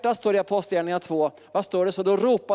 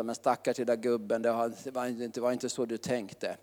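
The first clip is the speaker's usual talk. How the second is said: comforting father; 6 semitones lower, 6 dB quieter than usual. Retold or imitated. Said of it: "så pappa skulle trösta".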